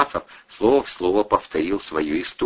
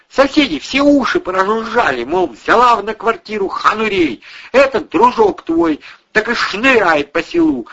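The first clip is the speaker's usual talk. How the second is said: higher, loud nagging woman's voice; angry housewife berating drunk tenants, higher; scolding landlady; 7 dB louder than usual. A narrator's reading. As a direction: tear into the lazy lodgers. Irina keeps scolding.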